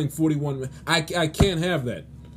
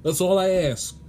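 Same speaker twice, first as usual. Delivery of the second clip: emphatic begging; 3 semitones higher, 3 dB louder than usual. Real, not acted. Sports host begs players to play competitive basketball, pleading. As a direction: implore them, punching out each please. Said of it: "I'm begging you".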